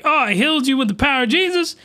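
lightly voiced sneering captain; mock smug villain. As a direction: rattle it off like a gloating healer. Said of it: "and he's like".

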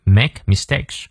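"make mistakes" with both sounds fully in place; full articulation. Shown as a demonstration. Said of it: "双音念到位". (make mistakes 双音念到位)

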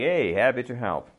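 casual, modest reply; brushing it off. Shown as a demonstration. Teacher modelling a casual answer to thanks, brushing it off. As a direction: shrug off the thanks lightly. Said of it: "brush off the gratitude".

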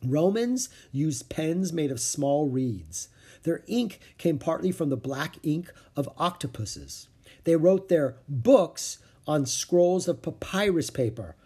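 slow, careful reading; reading aloud from a book. A narrator's reading. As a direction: read it out slowly like a text. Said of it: "He read".

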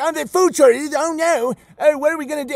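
high, whiny mock panic; mocking whiner. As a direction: ham up a helpless complainer.

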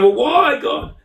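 high, drawn-out acted "why"; put-on plea, rising high then dropping away; plaintive mock pleading. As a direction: act out pestering God for a reason. Acts out pleading with God.

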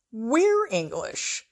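high, drawn-out mock announcement; mock exclamation. Two men whipping around to interrupt, imitated exclamation.

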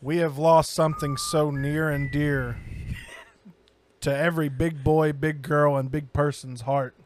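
slow, grave mock tribute; mock solemn. Host announces a discontinued ice cream's passing, mock solemn. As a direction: deliver a halting mock obituary.

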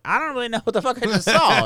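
high, loud mock disbelief; stunned disbelief. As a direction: play the onlooker who can't believe his eyes. Stunned soldiers quoted.

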